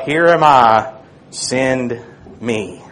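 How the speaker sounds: low, soft and slow, almost breathed; hushed humble answer. Acted. Isaiah answering the Lord in a reverent hush. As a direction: offer yourself in a reverent hush.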